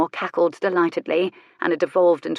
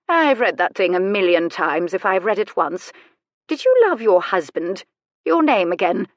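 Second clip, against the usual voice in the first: lightly voiced impatient dowager; dismissive old lady; 5 dB louder than usual. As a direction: brush it off, then pry imperiously. Old lady dismisses Bible, pries.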